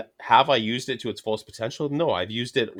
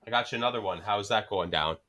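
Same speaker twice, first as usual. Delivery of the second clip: put-on Canadian accent; 3 semitones lower, 5 dB quieter than usual. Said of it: "then I said down".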